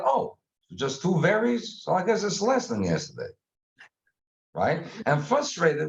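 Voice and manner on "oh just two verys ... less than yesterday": mock puzzled aside. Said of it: "so I'm thinking".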